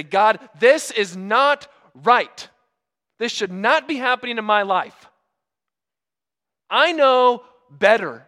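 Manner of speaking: mock the believer who knows better; protesting to God. A believer telling God he knows better, indignant. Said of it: "And say".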